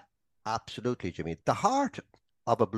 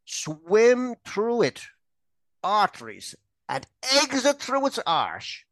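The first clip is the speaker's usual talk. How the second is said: Irish philosopher voice; 5 semitones higher than usual. Retold or imitated. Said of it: "quote that great Irish philosopher".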